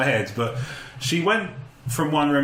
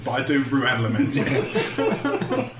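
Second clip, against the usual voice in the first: mock lament; 2 semitones higher, much slower than usual. Real, not acted.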